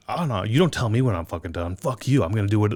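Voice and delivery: retold indignant refusal, punchy stresses; playfully defiant comeback; mock defiance. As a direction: imitate a performer refusing to quit. Acts singer defying stage manager.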